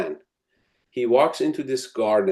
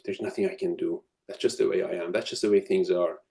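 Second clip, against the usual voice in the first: lower, defeated-sounding excuses; a lightly voiced helpless complainer; mock resignation; 3 semitones lower, 4 dB quieter than usual. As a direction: sound like someone who has given up. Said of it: "reactive language is things like".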